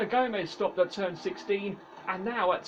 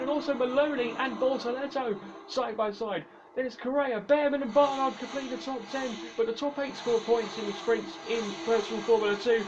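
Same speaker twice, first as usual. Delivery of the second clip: motorsport commentator; faster than usual. Acted. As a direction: lively race play-by-play. Live race play-by-play.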